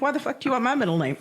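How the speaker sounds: quick, blurted, incredulous question; blunt disbelief. Retold or imitated. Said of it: "that's literally how I said it".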